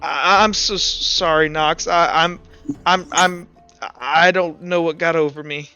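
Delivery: halting, mildly choked-up apology; tearful apology. Acted. Kilroy apologizing to Knox during a bro hug, tearing up. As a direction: stammer out the sorry, a touch tearful. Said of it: "kinda, like, tearing up".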